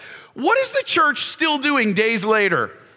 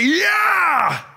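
mock cheer; 6 semitones higher than usual. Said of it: "you think the church would be stoked".

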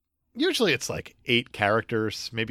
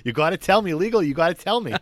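put-on English accent; 3 semitones higher than usual. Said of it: "This is my English accent now".

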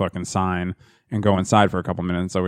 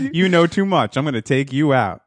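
higher-pitched joking hitman threat; hammed-up murder threat; mock threat; 3 semitones higher than usual. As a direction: playfully threaten to bump someone off. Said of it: "By that, I mean murder you".

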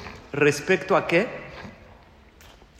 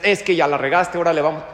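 scolding; 5 dB louder, faster than usual. Retold or imitated. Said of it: "No le digas".

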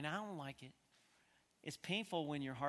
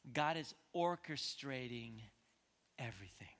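hushed emphasis; 3 semitones lower than usual. Real, not acted. Preacher giving the congregation his main point, hushed. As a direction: let "everything" sink almost to a whisper.

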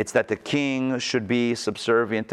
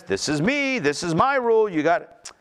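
much higher, swaggering tyrant voice; arrogant king; 5 semitones higher than usual. Retold or imitated. Corrupt king declaring his own rule, swaggering and arrogant. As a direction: crow it like a king who answers to no one. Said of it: "another king who says".

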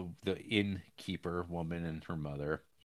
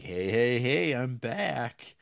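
drawn-out sing-song greeting; slow, breezy hey hey hey; cheery return; 4 semitones higher, 4 dB louder, much slower than usual. Retold or imitated. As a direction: stretch it out like a smug homecoming. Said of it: "And he's like".

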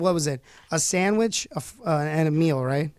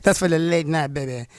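purring latin lover. Acted. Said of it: "Latin lover, baby".

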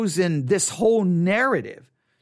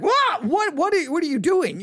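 much higher, startled cry of disbelief; shocked disbelief; 12 semitones higher, 4 dB louder than usual. Retold or imitated. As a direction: react like a talking donkey just spoke. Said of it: "You think we'd be like".

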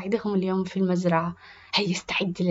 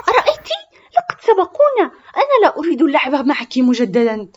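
put-on much higher, loud childish complaint; upset accusation; 7 semitones higher, 9 dB louder than usual. Zahra blames Rufaida loudly after they are overtaken. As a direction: wail at your partner.

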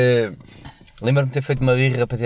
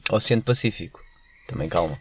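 calm radio voice. Shown as a demonstration. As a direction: demonstrate a relaxed radio ident, unhurried. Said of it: "muito mais calmo que isso".

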